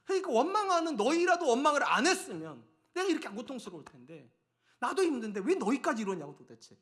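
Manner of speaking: acted frustrated outburst, loud and high then dropping; exasperated anger. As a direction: vent at the people as a fed-up Moses, mock earnest. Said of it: "모세 입장에서는 이게 너무 화가 나는". (화가 난 모세의 답답한 하소연 흉내)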